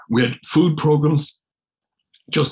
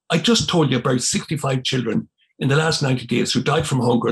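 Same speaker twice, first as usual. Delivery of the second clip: retold angry outburst. Priest indignantly answering his Jesuit mentor's question, retold mild shouting. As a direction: let rip at him, half-shouted. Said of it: "like, shouting at it".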